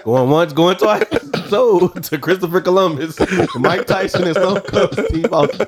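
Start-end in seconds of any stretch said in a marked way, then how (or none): 0.0-4.3 auctioneer. Pretend. Mock auction of holiday ideas.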